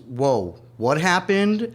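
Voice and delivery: mock the shock of new arrivals; excited disbelief. Host recalling his family's first shock in Los Angeles, excited and bewildered.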